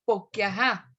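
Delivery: "porque ajá" clipped to "poqque ajá"; costeño "porque" without its R; swallowed R. Shown as a demonstration. Teacher repeating the coastal example, "porque" with R swallowed. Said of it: "se come el porque".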